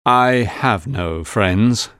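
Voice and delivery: slow, understated sadness; mildly sad. A narrator's reading. Fogg admitting to Aouda he is alone, mildly sad. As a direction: admit it slowly, a touch forlorn. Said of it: "he said sadly".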